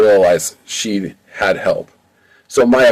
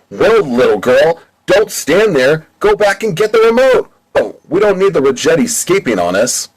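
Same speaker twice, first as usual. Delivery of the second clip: put-on higher, bossy henchman voice ordering the little girl; bossy henchmen voice; 7 semitones higher than usual. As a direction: boss her around like a pirate sidekick. Henchmen Ant and Pant bossing Maya.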